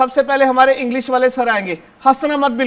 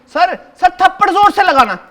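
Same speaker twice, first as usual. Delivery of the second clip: higher, louder gleeful egging on; eager urging; 6 semitones higher, 5 dB louder than usual. Acted. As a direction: egg the teacher on with glee. Urging teacher to slap boy.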